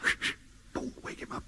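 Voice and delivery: hushed unvoiced whisper; whispering over a crib. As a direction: whisper so he won't wake. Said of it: "He's asleep".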